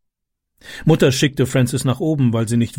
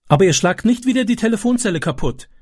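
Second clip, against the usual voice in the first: put-on higher, timid child's question; anxious boy; 9 semitones higher than usual. A narrator's reading. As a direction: ask it anxiously like a scared boy. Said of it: "fragte Francis ängstlich". (ängstliche, höhere Kinderstimme)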